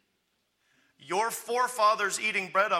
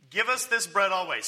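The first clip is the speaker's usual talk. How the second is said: louder, emphatic repeat of the request; keen, punched-up demand; eager plea; 3 semitones higher, 6 dB louder than usual. Acted. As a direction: plead for it with eagerness.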